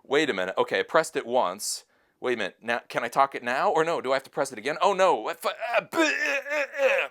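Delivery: mock flustered, rising to a laughing stammer; playing himself lost with the device; confused fumbling. Vlogger reenacting his confusion with the watch, mock flustered. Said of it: "It really was confusing to know".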